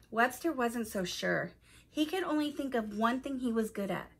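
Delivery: put-on clear, expressive storytelling to young listeners; story narration. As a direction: read it aloud like a picture book for children. Reads a children's story aloud.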